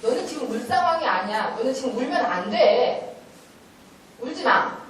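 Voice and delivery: firm, deliberate telling-off; clear and firm. Shown as a demonstration. Parent telling a child this is no time to cry, clear and firm. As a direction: spell it out plainly to a child. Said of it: "명확하게 말씀해 주셔야 돼요".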